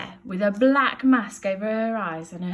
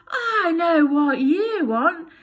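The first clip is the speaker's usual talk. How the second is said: weary Bill; 10 semitones higher, 9 dB louder, much slower than usual. Acted. Bill to smelly baby.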